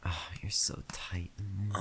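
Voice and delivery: whispering. Acted. Intimate whispered roleplay.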